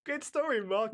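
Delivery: very high, silly put-on voice; film character impression. Actor ignoring the note to stop laughing, hammed-up impression. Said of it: "and he goes".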